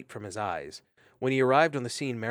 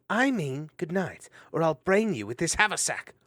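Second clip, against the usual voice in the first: stern threat; 7 semitones higher, 4 dB louder than usual. Acted. Mariel threatens again.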